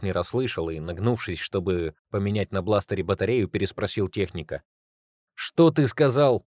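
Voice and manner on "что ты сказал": high, slow, loud yell; shouted question. A narrator's reading. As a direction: shout it over gunfire. Can't hear over battle.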